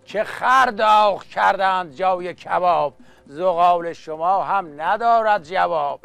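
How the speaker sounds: rhythmic chanted Persian verse; epic teahouse storyteller. Acted. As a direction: recite like a coffeehouse naghal. Naghali verse recital.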